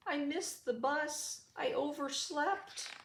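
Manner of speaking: high squealy piggy voice; a little pig upset and late; high oinking pig voice; crying piglet. A narrator's reading. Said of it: "Poor Piggy wept".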